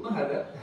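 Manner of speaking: Mahada with ma, ha and da all held long; long vowels. Shown as a demonstration. Teacher showing students to stretch every vowel. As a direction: lengthen each vowel in Mahada. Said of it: "Ma-nya panjang, ha-nya panjang, za-nya panjang".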